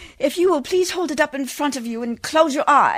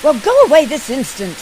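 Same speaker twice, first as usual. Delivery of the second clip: stern order; 6 dB louder than usual. Acted. Lady orders man away.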